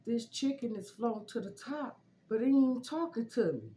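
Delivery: high, loud mock wail; retold hard crying. Complaining to cousin that the chicken won't talk, mock crying. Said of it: "I'm crying so hard".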